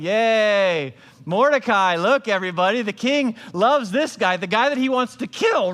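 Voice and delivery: loud, grudging fake cheer; loud, sarcastic parade cheer; mock cheering. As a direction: cheer him through town through your teeth. Forced public praise parade.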